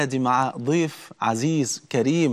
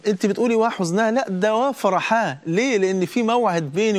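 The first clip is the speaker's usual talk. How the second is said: raised lively retelling; 6 semitones higher than usual. Retold or imitated. Retelling Bilal's reply to wife.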